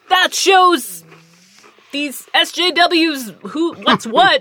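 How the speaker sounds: lightly mock a smug internet critic. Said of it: "certain people on the internet are like".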